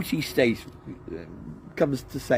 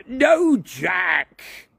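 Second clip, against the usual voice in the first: sharp high shout of no; 11 semitones higher, 9 dB louder than usual. A narrator's reading. Douglas shouting to stop Jack, high and loud. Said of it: "shouted Douglas".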